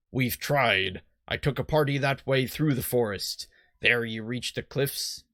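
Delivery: lightly voiced old sea-dog; a hint of stock pirate in it; generic pirate. Boat salesman explains the fog, light generic pirate. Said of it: "my generic pirate".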